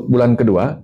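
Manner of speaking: ordinary delivery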